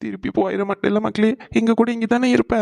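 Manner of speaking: tearful plea, rising in pitch; crying. Acted. Father begging his son not to leave again, crying. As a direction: beg him through tears to stay. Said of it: "எதுக்கு இப்ப இப்படி அழுதுட்டு இருக்கீங்க".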